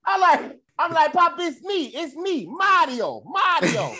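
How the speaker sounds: high, frantic pleading; scared squeal, it's me; panicked. Retold or imitated. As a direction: plead for your life at gunpoint. Panicking at drawn gun.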